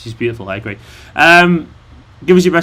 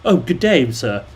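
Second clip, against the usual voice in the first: mock-posh British greeting, dropping away on the end; a light caricature of polite British English; stereotype British gent; 2 semitones lower, 3 dB quieter, slower than usual. Mocking viewers' idea of Brits, posh British accent. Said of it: "you think British people are all like".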